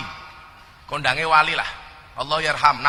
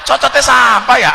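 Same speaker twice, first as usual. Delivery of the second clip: loud, higher mock indignation; indignant retort; 6 semitones higher, 9 dB louder than usual. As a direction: bristle at the insult. (protes keras pura-pura tersinggung)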